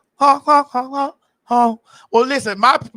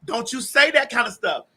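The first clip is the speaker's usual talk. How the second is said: shrill overlapping reality fight; 3 semitones higher than usual. Pretend. Mock argument, overlapping shouts.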